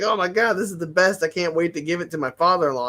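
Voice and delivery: high-pitched delighted gush; excited customer. Retold or imitated. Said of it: "they were like".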